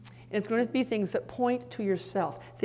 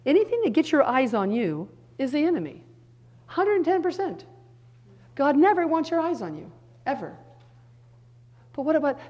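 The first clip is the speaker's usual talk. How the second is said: higher and louder, full conviction; fervent preaching; 7 semitones higher, 7 dB louder than usual. Real, not acted. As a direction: drive it home with a raised voice.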